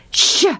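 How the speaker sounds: a short hushing "sh"; just the hiss of "sh"; sh sound. Shown as a demonstration. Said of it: "can't say some sounds like".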